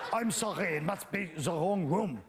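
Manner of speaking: a bad, hammed-up German accent, slowed down; Siegfried's German accent. Comic imitating Siegfried apologizing in a bad German accent. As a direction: fake German accent, apologizing at the wrong door. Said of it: "that bad accent I just did".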